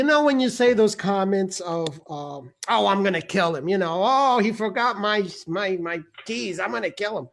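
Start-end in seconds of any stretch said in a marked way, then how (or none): 2.7-7.3 offhand mock threat. Shown as a demonstration. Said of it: "I said it in that way".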